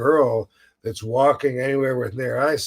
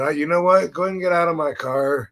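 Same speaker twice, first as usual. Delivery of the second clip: imagined dismissal; 3 semitones higher than usual. Retold or imitated. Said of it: "I wish I would have just said".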